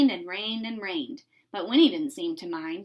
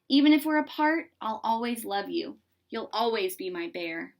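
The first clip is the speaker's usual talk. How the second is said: tender farewell. Acted. Harry's farewell promise.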